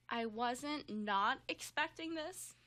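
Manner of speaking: slow, unbothered mock parrot; slow unsurprised parrot. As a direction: say it slow, startled but unsurprised. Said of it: "but also".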